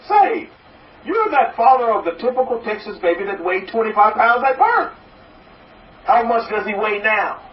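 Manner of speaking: high, eager bartender voice jumping up on say and birth; curious bartender. Acted. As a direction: play the bartender leaning in, curious. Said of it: "The bartender says".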